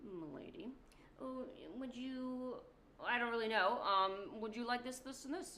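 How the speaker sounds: a hammed-up British charmer losing his lines; British accent. Corbeau offering teas, bumbling mock British accent. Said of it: "British accent".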